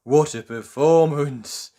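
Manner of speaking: slow, breathy little worm; lightly voiced worm, impressed. A narrator's reading. Worm impressed by the show, speaking slowly. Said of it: "commented the worm".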